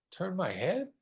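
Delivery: ordinary talk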